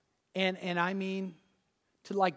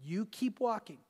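quiet, lowered divine voice telling him to keep going; voice of God; 2 semitones lower, 6 dB quieter than usual. Retold or imitated. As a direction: speak it as a calm inner command, hushed. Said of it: "the Lord spoke again and said".

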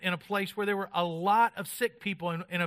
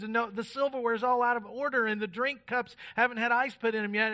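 stressed out; 4 semitones higher than usual. Retold or imitated. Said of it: "totally just stressed out".

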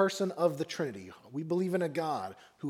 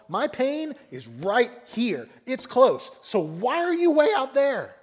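high, loud cry out to God; anguished plea; 6 semitones higher, 6 dB louder than usual. Acted. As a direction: call out to someone far away, pleading. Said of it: "you feel like the psalmist".

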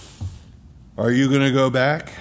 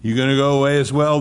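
louder and quick, confronting; pressing challenge; 4 dB louder, faster than usual. Acted. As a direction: fire the question straight at them. Jesus's question pressed on congregation.

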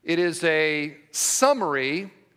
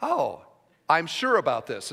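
imitating a listener; 7 semitones lower, 4 dB quieter than usual. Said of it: "the people that are listening are like".

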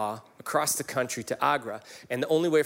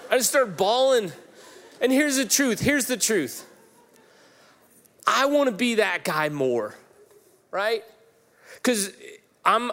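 pushing through tears, higher; choked-up confession, higher; emotional, near tears; 4 semitones higher than usual. Real, not acted. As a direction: voice lifted and strained with emotion. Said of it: "I'm gonna cry r-, a lot during this".

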